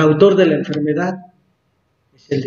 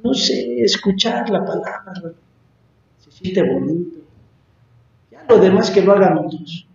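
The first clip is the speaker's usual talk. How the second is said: imitating reluctant believers. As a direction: mimic a comfortable, uncommitted churchgoer. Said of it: "los veo así como diciendo". (imitando a un creyente desganado)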